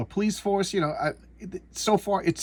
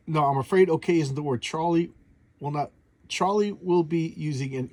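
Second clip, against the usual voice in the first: halting read that trips over the words; stumbling misread. Shown as a demonstration. Reading the comic caption aloud to viewers, tripping over the words. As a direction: stumble and restart mid-line, losing the place. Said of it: "jeez, I can't even read".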